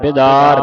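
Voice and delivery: ਬਿਦਾਰ with short "bi", loud and firm; short i after b. Shown as a demonstration. Teacher modelling spelling for a student, ਬਿਦਾਰ firmly with short i. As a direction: hit ਬਿਦਾਰ as "bi-daar". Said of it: "ਬੱਬੇ ਸਿਆਰੇ".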